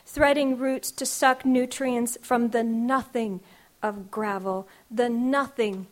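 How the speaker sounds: measured, rhythmic spoken-word delivery; poem reading. Acted. Poet reading her grandmother poem to the audience, rhythmic. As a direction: let each image land in the verse.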